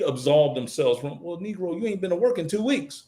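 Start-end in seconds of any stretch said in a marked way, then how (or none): 1.2-3.0 higher, softer, deadpan boss; a hint of a boss stating the obvious; lightly voiced manager, quietly cutting; dry rebuke. Boss voiced firing a worker.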